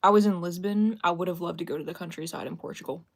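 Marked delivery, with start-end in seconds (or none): 0.0-1.0 I WAS in Lisbon, said louder and firmer; emphatic correction. Real, not acted. Correcting her own geography slip, firm and loud. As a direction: set the record straight, loud and sure. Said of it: "Sorry, God".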